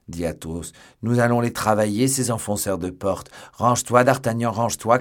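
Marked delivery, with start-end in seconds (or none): 1.0-3.3 booming, raised-voice menace; loud threat. A narrator's reading. Athos threatens the door breakers from the cellar, loudly. 3.5-5.0 loud urgent warning; shouted. A narrator's reading. Athos warns D'Artagnan to stand aside, shouting. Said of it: "cria Athos".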